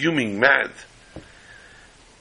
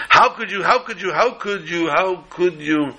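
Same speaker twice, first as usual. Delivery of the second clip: dismayed repetition; 6 semitones higher than usual. Acted. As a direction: let the outrage drain away with each repeat. Attorney repeats in disbelief.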